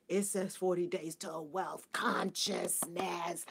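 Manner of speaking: slow, breathy whispered reveal. Real, not acted. Telling the live audience what the book really says, whispered slowly. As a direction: let the secret slip out slowly in a whisper. Stressing the book's real promise.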